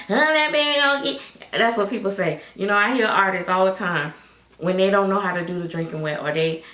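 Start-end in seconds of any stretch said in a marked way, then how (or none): 0.1-1.2 lightly put-on higher voice, a bit louder; mock critic. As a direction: imitate a nay-sayer, half-hearted. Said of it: "people be like".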